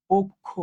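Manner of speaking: অক্ষ said "ok-kho", with k closing the first syllable; অক্ষ with a doubled k-kh in the middle; k-kh pronunciation. Shown as a demonstration. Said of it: "তো এটার উচ্চারণ কি হবে?".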